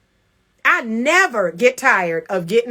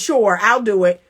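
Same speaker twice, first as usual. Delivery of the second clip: imitating a reluctant husband's yes; mildly grudging agreement; begrudging; 3 semitones lower than usual. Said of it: "He begrudgingly says".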